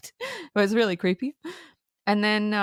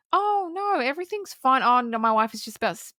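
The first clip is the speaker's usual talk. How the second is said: higher, airy brush-off of a lying dad; breezy fake reassurance; 5 semitones higher than usual. Dad at the door fobbing off the neighbor, mock casual. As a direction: toss it off like nothing's wrong, pitched up. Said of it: "and the dad goes".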